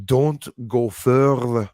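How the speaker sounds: put-on slow, drawn-out Scottish accent; imitating a Scottish troll's accent, slowly. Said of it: "I'm getting good at the accent".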